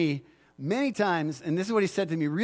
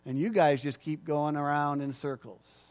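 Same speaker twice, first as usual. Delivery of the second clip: God's rebuke; 4 semitones lower, 5 dB quieter than usual. Retold or imitated. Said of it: "And God says".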